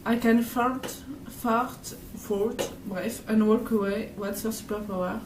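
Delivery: put-on reading an English slogan in a strong French accent; English words said the French way, like a tourist; T-shirt joke read in heavy French-accented English. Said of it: "Désolée pour mon accent".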